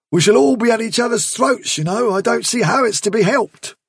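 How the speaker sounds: a touch of alarm; Bigwig's gruff worry. Acted. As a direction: press the point, fretting. Bigwig voiced in reading.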